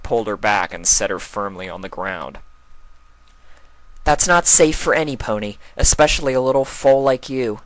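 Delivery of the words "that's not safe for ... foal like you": higher, louder caring mare voice, warning; gentle scolding. Acted. Twilight warning the foal about the forest, firm but kind. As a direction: mind the little one.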